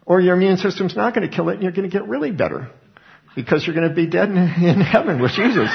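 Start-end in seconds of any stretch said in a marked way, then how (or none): 3.4-5.8 laughing. Real, not acted. Laughs at his own punchline.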